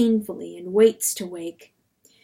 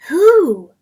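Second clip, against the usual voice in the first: high, loud hooting cry; a loud, swooping crow; cock's crow; 9 semitones higher, 13 dB louder than usual. A narrator's reading. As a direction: cry it out high like a crowing cock. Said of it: "the cock's crow whispers".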